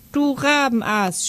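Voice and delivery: high-pitched, indignant narrated cry; piping angry shout. A narrator's reading. Franz yells after Gabi who lied, shrill with agitation. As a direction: shout an insult in a high, worked-up voice. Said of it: "schrie der Franz hinter ihr her".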